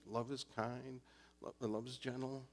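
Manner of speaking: soft, hesitant recital; sheepish reciting. Retold or imitated. Pastor answering the inner voice, meek reciting. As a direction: mumble the verse back like a scolded student. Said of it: "I said".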